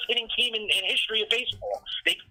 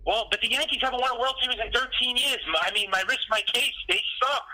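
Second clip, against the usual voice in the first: pitched-up, heated fan rant that never quite shouts; exasperated venting rant; 3 semitones higher than usual. Real, not acted. Fed-up Yankees fan venting to his co-hosts, pitched up and heated. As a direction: vent the frustration, pitch climbing on each complaint. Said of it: "I'm not yelling at you".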